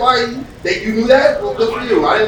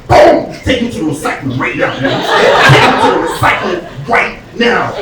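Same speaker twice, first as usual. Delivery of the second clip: loud mock cop order; hammed-up trash cop shouting the order; cop bark; 5 dB louder than usual. Cop voice in bit.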